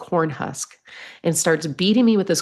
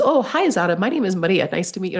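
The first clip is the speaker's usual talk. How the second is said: bright friendly greeting; 3 semitones higher, faster than usual. Retold or imitated. Cheerfully greeting a misunderstood name.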